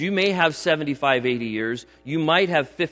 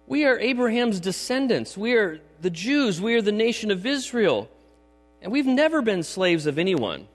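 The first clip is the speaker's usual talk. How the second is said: higher-pitched, mildly acted protest; lightly acted proud retort, pitched up; protesting crowd; 5 semitones higher than usual. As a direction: insist on it as the offended crowd. Acts out crowd answering Jesus.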